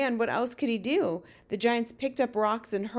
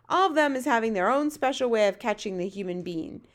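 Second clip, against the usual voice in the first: lightly voiced giant, livelier than the narration; BFG storyteller giant. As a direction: lightly play a giant explaining giants' habits.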